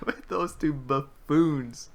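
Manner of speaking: slow, drawn-out echo of the line; mocking echo. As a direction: savor each word like quoting her. Streamer echoes character's line.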